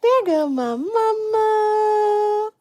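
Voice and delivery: put-on very high, slow sing-song baby voice; voicing the baby. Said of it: "You say".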